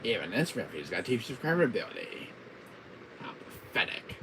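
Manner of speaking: lightly voiced villain disdain; Wesker. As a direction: scoff as an arch-villain. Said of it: "my Wesker voice".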